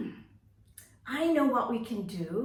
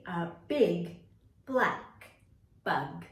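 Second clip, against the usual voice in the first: slow tongue twister; 4 semitones lower, slower than usual. Shown as a demonstration. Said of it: "practice one more time".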